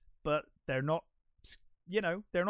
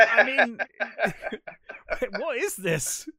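high, loud, laughing through the words; laughing disbelief; 8 semitones higher, 10 dB louder, slower than usual. Real, not acted. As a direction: exclaim it through real laughter. Laughing in delighted disbelief at the film.

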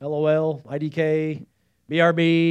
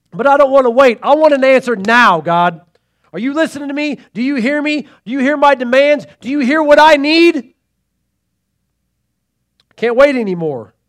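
high loud demanding shout; screaming at God; 7 semitones higher, 8 dB louder than usual. Retold or imitated. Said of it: "That's me screaming at God".

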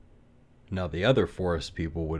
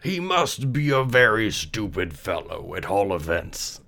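pompous groundhog; 2 semitones higher, 3 dB louder than usual. Acted. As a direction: speak with stuck-up dignity. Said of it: "said the groundhog".

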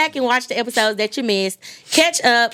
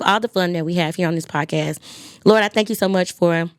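prayer. Acted. Leads a closing prayer.

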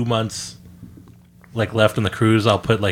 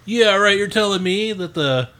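mocking disbelief; 5 semitones higher than usual. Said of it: "they'll be like".

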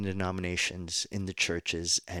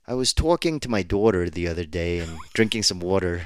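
louder, hammed-up New Jersey accent; 5 dB louder than usual. Shown as a demonstration. Preacher recalling an old sermon line, New Jersey accent. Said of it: "get rid of my New Jersey accent".

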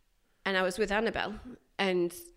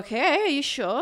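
incredulous double-check; 7 semitones higher, 9 dB louder than usual. Retold or imitated. Replays checking the boss's permission.

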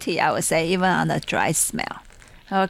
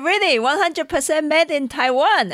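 retold insistence; 9 semitones higher, 3 dB louder than usual. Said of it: "And I said".

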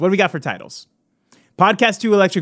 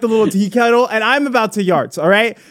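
begging an ex back; 3 semitones higher than usual. Pretend. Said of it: "I'm on my knees. I'm begging".

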